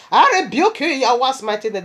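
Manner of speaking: commanding rebuke. Retold or imitated. Retold rebuke of demons in vision.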